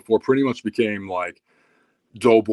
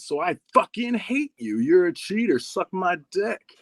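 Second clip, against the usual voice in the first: laying into him, pitch climbing as it goes; mock-angry insults building higher; retold mean tirade; 5 semitones higher than usual. Teen laying into his old training partner, mock-angry. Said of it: "just being so mean. I was just laying into him".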